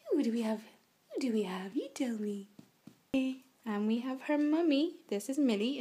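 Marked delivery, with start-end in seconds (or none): 1.1-2.5 breathy whisper to the pup. Real, not acted. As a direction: whisper it to the dog. Calling to the puppies.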